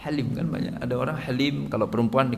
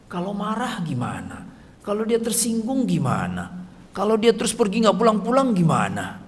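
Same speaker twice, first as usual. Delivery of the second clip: worried parent. Retold or imitated. Parent voicing worries about child.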